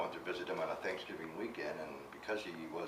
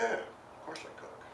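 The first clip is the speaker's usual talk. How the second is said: put-on higher, slow, eager young self; eager young reply; 11 semitones higher, slower than usual. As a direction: answer like a cocky nineteen-year-old. Young self answering the colonel.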